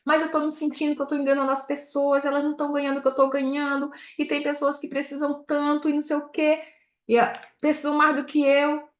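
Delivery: lightly imitated tearful complaint; mock tearful. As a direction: retell your own crying plea, pitched a little up. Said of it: "e eu chorando". (lamento choroso, levemente imitado)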